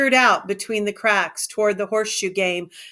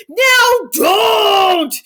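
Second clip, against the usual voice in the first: higher, louder frightened scolding; angry; 12 semitones higher, 8 dB louder than usual. A narrator's reading. Lenny angrily telling Curly's wife not to yell. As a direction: order her to stop, panicked. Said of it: "Lenny grew angry".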